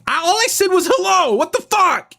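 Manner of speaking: high, fast, baffled outburst; exasperated disbelief. Retold or imitated. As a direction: play it like you only said hello and got mobbed. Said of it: "And then you're like".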